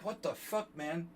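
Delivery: high mock outburst at the driver; retold cursing. Retelling cursing out the bus driver, high mock outburst. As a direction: fling the curse up high, half in fun. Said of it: "I just, like, cursed him out".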